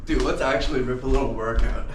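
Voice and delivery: loud, pumped-up shout. Real, not acted. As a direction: hype yourself up. Pumped friend suggests workout.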